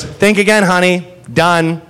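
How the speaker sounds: lightly voiced sweet old bartender; adorable old bartender. Old bartender cutting off a drunk, sweetly firm. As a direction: refuse her, kindly but firmly. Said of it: "Like, kind of adorable".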